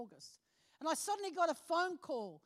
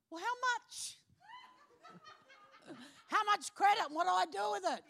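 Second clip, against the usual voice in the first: much higher, laughing questions; excited eagerness; 8 semitones higher, 4 dB louder than usual. Retold or imitated. Woman pressing the tour company about credits, excited. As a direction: ask it eagerly, barely holding in laughter.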